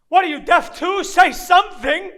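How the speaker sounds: frustrated shout upward; angry demand. Acted. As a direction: demand an answer from the heavens. Rails at silent God.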